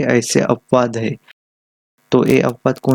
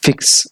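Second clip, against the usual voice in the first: फिक्स with its opening फ pressed firmly; stress on first sound. Shown as a demonstration. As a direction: push the फ of फिक्स a little harder. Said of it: "हम एफ पर ज़्यादा, अ, stress दे रहे".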